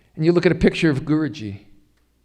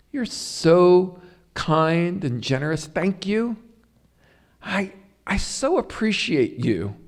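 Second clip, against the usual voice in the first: loving words; slower than usual. Retold or imitated. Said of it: "when somebody says".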